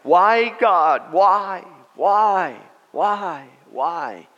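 loud, high, plaintive whys; hammed-up cry of complaint, each why drawn out; mock wailing. Churchgoer pleading with God to act, mock wailing.

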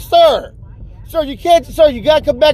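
high-pitched, flustered manager impression; mocking high manager voice; protesting store manager. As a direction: plead with a departing customer. Manager still trying to stop him.

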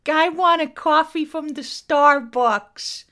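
slow, loud mock American accent; American accent impression. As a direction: stretch it out like a Starbucks regular. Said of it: "the American years?".

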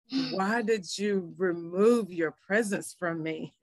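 slow, drawn-out retold plea to God; tearful plea. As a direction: plead slowly, understated, no sobbing. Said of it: "I just began to weep".

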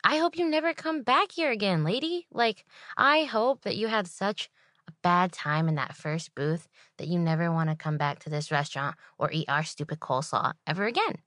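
inner annoyed thought. Retold or imitated. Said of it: "And I'm thinking".

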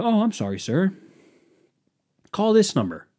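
high-pitched mock-apologetic agent; customer service agent. Live chat agent brushing off a customer, mock-polite.

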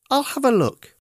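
high, plaintive teddy voice; a little bear telling his sad tale; Teddy explaining. A narrator's reading. Teddy explaining to Monkey about the money, high and plaintive. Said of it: "said Teddy No-Nose".

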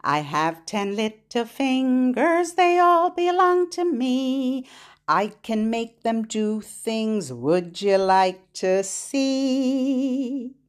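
put-on bouncy rhythmic chant for little kids; sing-song finger play. Teacher chants a finger rhyme to children, sing-song.

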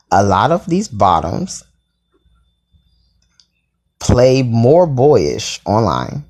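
whispered and drawn out slowly; slow hushed whisper. Real, not acted. Spelling out the tops' claim.

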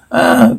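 short high "ah"; mock battle cry. Reader voicing a warrior in battle, mock high cry. Voices a warrior's triumphant growl.

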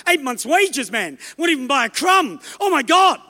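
flustered, shouting about the cost; panicked Philip. Retold or imitated. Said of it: "running around with his calculator going".

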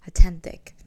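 "authentic" said "ah-TEN-tik", Filipino accent; Filipino-accented "authentic", T in place of th. Real, not acted. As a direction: hit a hard T in "authentic", Filipino style. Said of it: "There goes my accent".

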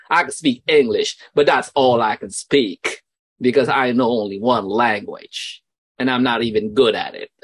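lightly voiced mother quoting a film; imitating Forrest Gump's mom. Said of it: "My mom always said".

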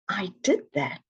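hushed, breathy disbelief; awed whisper. Retold or imitated. Client quietly realizing their change, whispered. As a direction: whisper it as if you can't believe it.

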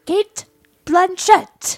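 slow, high, loud announcement; dramatic announcer. Pretend. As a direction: announce the name like a big reveal. Dramatic answer to who is that.

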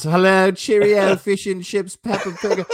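high, hammed-up English accent; silly English accent. Co-host leading off the show with his planned bit, silly English accent. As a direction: put on a daft, singsong English accent. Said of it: "do my stupid English accent".

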